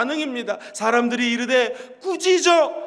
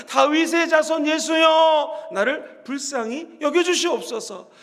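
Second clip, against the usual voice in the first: drawn-out pleading cry to Jesus; slower than usual. Acted. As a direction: call out slowly, begging for mercy. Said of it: "앉은 자리에서 소리칩니다".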